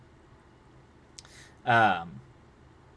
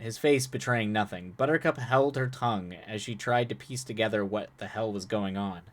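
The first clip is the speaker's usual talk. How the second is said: ordinary delivery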